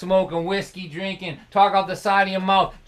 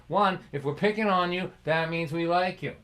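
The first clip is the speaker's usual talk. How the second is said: usual speaking voice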